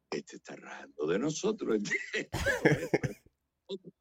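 put-on a small boy whining in a tiny voice; voiced little child. The boy in his father's arms, lightly voiced as a child. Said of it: "me miraba y decía".

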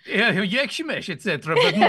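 put-on comic Kazakh accent through laughter; mock Kazakh accent. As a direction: play a bad Kazakh spy, amused. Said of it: "you're a spy from Kazakhstan".

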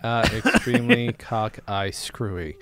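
reading lyrics through a laugh. Shown as a demonstration. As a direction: stumble through it giggling. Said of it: "read these lyrics out loud".

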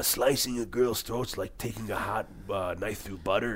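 a hint of a cold-blooded movie henchman, slowed down; mercenary impression. Mercenary bragging to his crew about slicing throats, lightly voiced henchman. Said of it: "one of his mercenaries is like".

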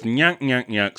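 a lightly voiced Three Stooges nyuk-nyuk; understated slapstick nyuk sound. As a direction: toss off a mock stooge chuckle. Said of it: "super lowbrow, dumb-ass humor".

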